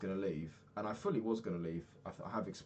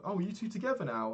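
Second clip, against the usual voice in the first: high-pitched imitation of curious coworkers; nosy questioner; 11 semitones higher, 4 dB louder than usual. People asking if they are together, high mock curiosity. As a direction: mimic their prying question, voice pitched way up.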